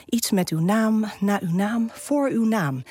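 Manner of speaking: measured, deliberate poem recital; poem reading. Acted. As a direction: Dutch poem read with care. Reads her own poem aloud.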